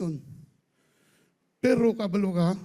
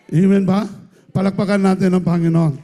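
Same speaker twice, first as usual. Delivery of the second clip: much louder rallying call for applause; loud call to the congregation; 3 semitones lower, 10 dB louder, faster than usual. Real, not acted. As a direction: rouse the crowd to clap for the Lord. Calling the congregation.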